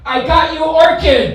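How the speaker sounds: put-on high, loud, bubbly Valley girl squeal. Mocking his girlfriend's friend at the party in a Valley girl voice. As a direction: chirp it like a Valley girl handing over a gift. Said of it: "She goes".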